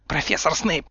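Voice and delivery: tight, restrained address; through gritted teeth. A narrator's reading. Umbridge addressing Snape, through gritted teeth. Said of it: "процедила Амбридж".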